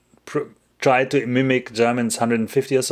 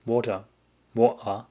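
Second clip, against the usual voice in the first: "Water" in a German accent; 4 dB quieter than usual. Shown as a demonstration. Streamer testing own German accent on water. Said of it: "Maybe water is a German accent then".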